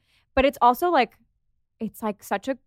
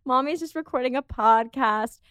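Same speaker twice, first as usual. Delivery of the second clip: soothing dog voice. Retold or imitated. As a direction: gently reassure the puppy. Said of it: "I'm like".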